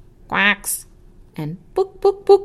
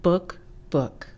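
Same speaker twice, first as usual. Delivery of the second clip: clucky hen voice on book book; hen clucking book; slower than usual. Acted.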